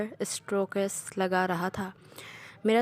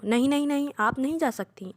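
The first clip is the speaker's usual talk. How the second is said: urgent protest; 5 semitones higher than usual. Acted. Son stops mother leaving.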